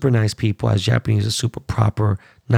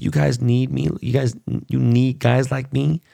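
mock Conor line. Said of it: "that whole, like, line".

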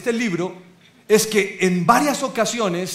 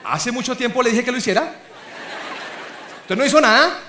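mock nagging wife; 4 semitones higher, faster than usual. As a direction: play the fed-up wife shoving him aside. Wife scolding husband, imitated.

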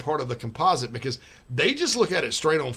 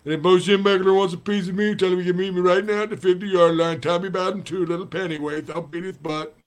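put-on loud lisping old coach voice; fired-up coach threats; Lou Holtz impression; 4 semitones higher, 5 dB louder than usual. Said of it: "coming through in the Lou Holtz".

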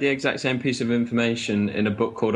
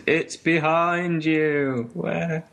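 panto crowd callback; 4 semitones higher, much slower than usual. Pretend. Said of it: "We could do a pantomime".

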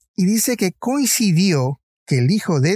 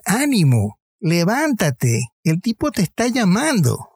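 urging cry; 5 semitones higher than usual. Retold or imitated. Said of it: "y le dijeron".

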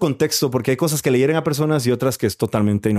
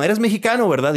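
imitating Uber driver; 8 semitones higher than usual. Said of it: "ya para el número veinte".

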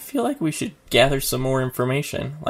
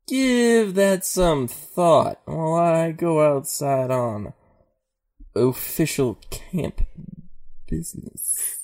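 slow, lazy stoner, trailing off; lightly voiced mellow stoner; 3 semitones higher, slower than usual. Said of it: "He can do his stoner voice"

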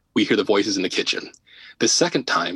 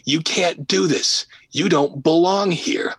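retold scream; 7 semitones higher, slower than usual. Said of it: "like, screaming".

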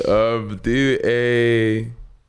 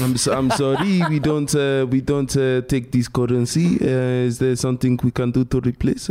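apologetic French-accented waiter; mock French waiter, full of uhs. Shown as a demonstration.

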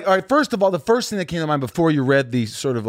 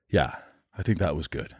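low, soft retold verdict; quiet self-approval; 8 semitones lower, 8 dB quieter than usual. Actor after his third take, quietly approving. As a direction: murmur it low, imitating a satisfied actor.

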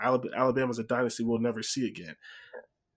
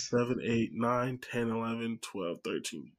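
soft muttered counting; counting under breath; 2 semitones lower, 7 dB quieter, slower than usual. Real, not acted. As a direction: count them off quietly. Counting teams on a list.

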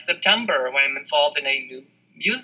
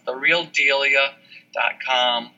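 "the real delia" said slowly, word by word, for the listener to note; careful, measured dictation; slow and clear; slower than usual. Shown as a demonstration. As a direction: slowly dictate it like a web address. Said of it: "just the way it sounds".

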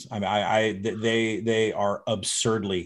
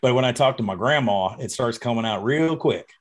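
hammed-up Southern accent, slowing at the end; fake Southern accent. Shown as a demonstration. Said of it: "sounded like a fake Southern accent".

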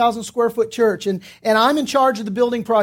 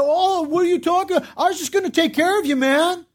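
mock-offended, higher pitch; mildly indignant protest, pitched up; copping an attitude; 5 semitones higher than usual. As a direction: imitate an angry guy acting hurt. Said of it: "He's angry with me".

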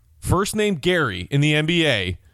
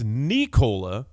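Nikola with the stress on the first syllable, NEE-ko-la; stress on knee; 3 semitones lower, slower than usual. Shown as a demonstration. Host teaching the stress of Vucevic's first name. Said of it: "emphasis on the knee".

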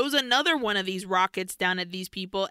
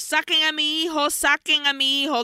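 imitated yell; 6 semitones higher than usual. Father yelling to get his son out, mock yell. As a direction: call out for your son, half-acted. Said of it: "and he yells".

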